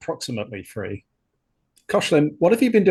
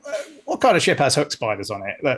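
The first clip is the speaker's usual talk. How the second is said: wobbly Cockney, drifting toward Australian; attempted Cockney accent; 3 dB louder than usual. Crewman owns up to an ensign about the spiders, attempted Cockney accent. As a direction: have a rough go at Cockney. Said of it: "can you do the Cockney accent".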